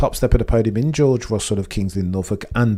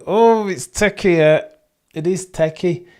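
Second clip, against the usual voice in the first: higher, louder excited burst; excited yelp; 9 semitones higher, 4 dB louder than usual. Real, not acted. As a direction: pop up in surprise at the tension. Sudden excited reaction.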